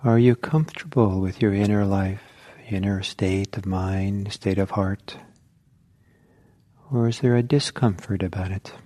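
unhurried meditation guidance with long pauses; guided meditation. Real, not acted. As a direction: guide listeners inward, leaving silence between phrases.

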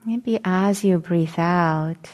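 calm meditation guidance with long pauses; guided meditation. Acted. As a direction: gently guide them into settling, leaving long silences between phrases.

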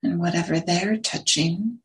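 unhurried meditation guidance, long silences between phrases; guided meditation. Real, not acted. Teacher settling a group into sitting posture, guided meditation. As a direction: guide them gently into the sit, phrase by phrase.

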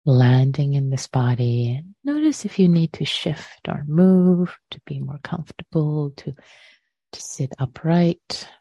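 unhurried meditation guidance with long pauses; guided meditation. Real, not acted. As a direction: gently guide listeners to settle, phrase by phrase.

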